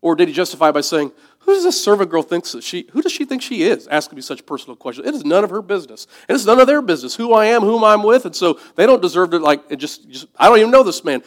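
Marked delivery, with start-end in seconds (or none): 1.4-11.2 indignant self-justification. Retold or imitated. Peter justifying himself indignantly.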